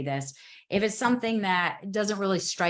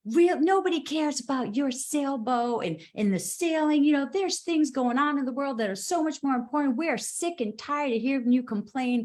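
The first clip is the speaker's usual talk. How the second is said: higher, scornful mocking of the commenter's rant; mock lashing out; 5 semitones higher than usual. Imitating a rude commenter lashing out at her sailing post. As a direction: sneer it out like a snippy stranger. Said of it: "she lashed out in the comment".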